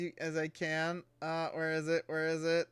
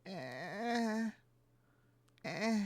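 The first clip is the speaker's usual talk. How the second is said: unimpressed; 7 semitones higher, 6 dB quieter than usual. Retold or imitated. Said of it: "I'd just be like".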